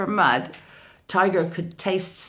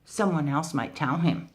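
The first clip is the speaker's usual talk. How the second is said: darkly. Acted. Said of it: "said Mouse Deer darkly".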